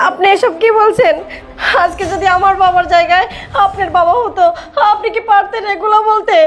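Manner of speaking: crying, hurt questioning; tearful protest. Acted. Wife asks husband about insulting her father, tearful protest. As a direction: challenge him through tears.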